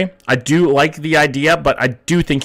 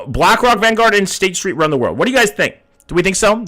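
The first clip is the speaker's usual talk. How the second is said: higher-pitched poll announcer; 6 semitones higher than usual. Acted. Streamer asks chat to judge a theory, announcer style. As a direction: put it to the crowd in a raised voice.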